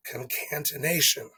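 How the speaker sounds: concatenation said kun-kan-tuh-NAY-shun; careful kun-kan-tuh-NAY-shun for concatenation; own pronunciation. Shown as a demonstration. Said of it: "is how I say it".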